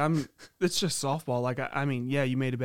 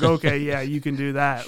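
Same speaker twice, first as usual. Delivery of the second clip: mock agreement; 6 dB louder than usual. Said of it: "I'm like".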